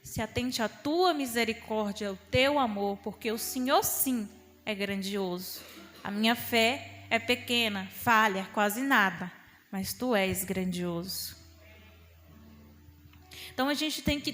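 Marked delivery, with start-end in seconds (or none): 0.0-11.3 humble prayer. Shown as a demonstration. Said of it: "fale assim".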